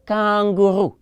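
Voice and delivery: KANGAROO the French way, "kahn-goo-ROO"; teacher modelling French "Kangaroo" for repetition; model pronunciation. Shown as a demonstration. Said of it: "Somebody pronounce it like me?".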